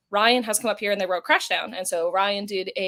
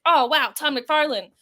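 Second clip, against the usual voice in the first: mildly gushing fan, drawn out and higher; mock starstruck; 5 semitones higher, 4 dB louder, slower than usual. Fan who never was, mock starstruck. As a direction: pretend to be wowed, slowly. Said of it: "I was never like".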